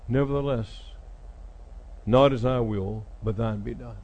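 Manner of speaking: low, halting prayer with long pauses; hesitant surrender. Retold or imitated. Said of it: "He's hesitant".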